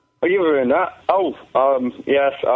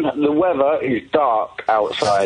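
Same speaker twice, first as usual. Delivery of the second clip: weatherman; 3 semitones lower, slower than usual. Pretend. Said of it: "greatest weather report".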